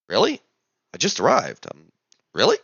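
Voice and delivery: can't believe it; incredulous. Retold or imitated. New arrival reacts to starting work tomorrow, mildly incredulous.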